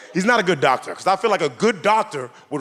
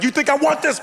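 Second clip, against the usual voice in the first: pitched way up, whiny; body whining back in a high voice; high squeaky body voice; 11 semitones higher than usual. Retold or imitated. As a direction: squeak it like a put-upon voice.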